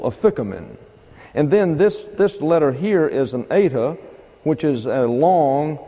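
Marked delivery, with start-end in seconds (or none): 0.0-0.8 afikomen stressed on "fik", lower in pitch; second-syllable stress. Shown as a demonstration. Teacher showing how we would tend to say it, afikomen with second-syllable stress. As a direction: say afikomen as "a-FIK-o-men", short last syllable. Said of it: "accent this second syllable".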